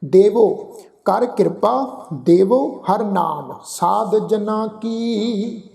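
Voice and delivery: slow, drawn-out chanted reading of the verse; measured Gurbani path recitation; slow scripture recitation. Shown as a demonstration. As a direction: recite each line slowly and reverently. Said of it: "ਹੋੜੇ ਵਾਂਗ ਉਚਾਰਨ ਹੁੰਦੀ ਆ".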